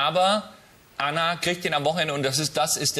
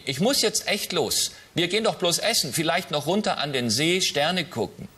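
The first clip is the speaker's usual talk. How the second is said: high daughter voice; 2 semitones higher than usual. Acted. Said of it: "Ich unterscheide es stimmlich ein bisschen".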